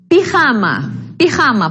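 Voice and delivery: "Pijama" twice, stressed middle ja, falling after; stress on penultimate syllable. Shown as a demonstration. Teacher showing students a grave word, stressing ja in "Pijama". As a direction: put the weight on ja in "Pijama". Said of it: "é a penúltima".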